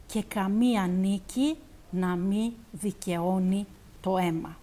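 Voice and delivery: expressive Greek recital, phrase by phrase with pauses; poetry recitation. Acted. Host reciting the translated war poem to the audience, expressive recitation. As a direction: declaim each image, then let it settle. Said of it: "απαγγείλω κι εγώ".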